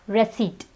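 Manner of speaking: receipt ending in a bare T; silent P. Shown as a demonstration. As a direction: say receipt as ri-SEET. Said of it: "the P is silent".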